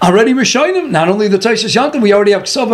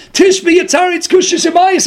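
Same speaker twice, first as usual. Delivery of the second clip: raised mock shout of Tishbi Yataritz Kushas Abayis; mock demanding shout; 6 semitones higher than usual. Madman demands answers.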